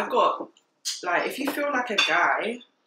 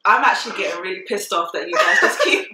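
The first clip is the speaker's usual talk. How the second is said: annoyed protest; 5 semitones higher, 7 dB louder than usual. Retold or imitated. Acted protest to the brother.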